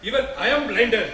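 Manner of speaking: soft, contrite, falling apology; remorseful plea. Acted. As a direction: confess it quietly, full of regret. Shiva repents before grieving Parvati.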